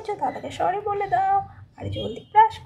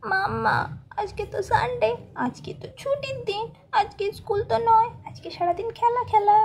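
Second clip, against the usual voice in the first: a higher, bouncy kid's cheer about playing all day; gleeful child; 5 semitones higher than usual. Child telling mother it's Sunday, gleeful. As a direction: crow about a day off like a happy kid.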